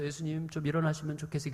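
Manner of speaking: soft, polite request in jest; mock-polite waking. Disciples waking Jesus to Mozart, mock-gentle and polite. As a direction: gently coax a sleeper, tongue in cheek. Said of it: "모차르트의 음악을 틀어주면서".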